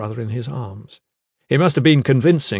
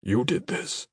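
hushed, tense and soft; tense whisper; 6 dB quieter, slower than usual. Acted. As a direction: hiss it in disbelief. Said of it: "he whispered tensely".

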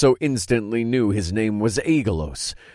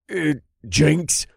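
hesitant; 9 semitones higher, 3 dB louder than usual. A narrator's reading. Hesitant possessed man.

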